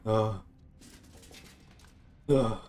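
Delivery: a rough throaty growl from the back of the throat; guttural German R. Shown as a demonstration. Streamer to chat, demoing a guttural German R. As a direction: scrape out a German R like a gargle. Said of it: "Guttural German R".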